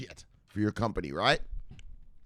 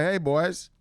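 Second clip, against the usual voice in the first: higher, cocky call to the room; cheeky greeting; 7 semitones higher, 3 dB louder than usual. Acted. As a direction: breeze in and hail everyone. Acts cocky greeting at meeting.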